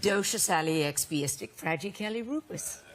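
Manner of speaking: word said backwards, syllable by syllable; backwards speech. Shown as a demonstration. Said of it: "can still say it backwards".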